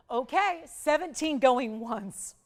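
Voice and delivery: slow, loud auctioneer cry; auctioneer call. Acted. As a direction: draw out the going once. Auction host calls the bid.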